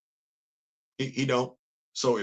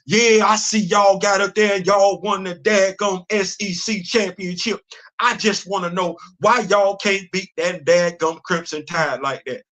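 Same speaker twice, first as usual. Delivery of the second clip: imitating a thick Southern country accent. Mimicking a country show host needling Georgia, thick country accent. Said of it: "he got a serious country accent".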